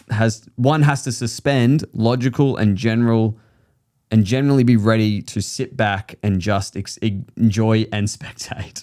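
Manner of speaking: halting read, stumbling and restarting; nervous stop-start reading aloud. Real, not acted. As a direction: read slowly, tripping over the words. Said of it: "got, like, nervous halfway through".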